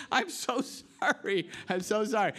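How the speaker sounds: a touch of tearful sorry; retold apology. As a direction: re-enact a guilty kid apologising to the pig. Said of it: "I just remember saying".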